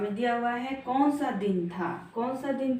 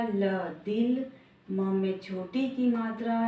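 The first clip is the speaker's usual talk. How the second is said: sounding out words. Shown as a demonstration.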